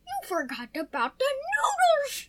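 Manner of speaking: alarmed shout. Pretend. Noodles burning in pretend kitchen.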